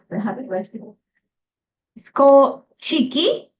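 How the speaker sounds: ordinary talk, nothing marked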